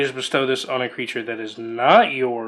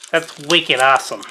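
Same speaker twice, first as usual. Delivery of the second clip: badly faked Boston accent; 4 dB louder than usual. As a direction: put on a hammy Boston accent. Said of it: "My horrible Boston accent".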